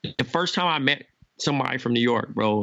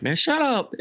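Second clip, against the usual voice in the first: imitating a rude comeback; 12 semitones higher than usual. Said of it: "some niggas that'd be like".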